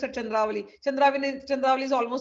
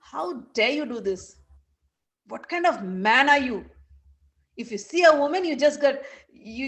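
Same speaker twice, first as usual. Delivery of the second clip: indignant, emphatic reproach with rising questions; angry scolding; 3 semitones higher than usual. Acted. Saraswati scolding Krishna for forgetting Radharani, indignant. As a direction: take him to task, acted indignation. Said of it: "And Saraswati is angry".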